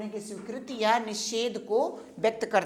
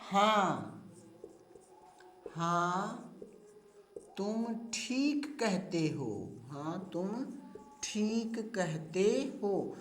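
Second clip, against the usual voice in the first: slow dictation; 7 dB quieter, much slower than usual. Shown as a demonstration. Example dictated slowly.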